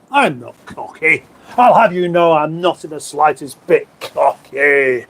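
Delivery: slow, drawn-out mock protest; mock indignation. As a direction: protest with exaggerated offence, taking your time. Mock protest at being called cocky.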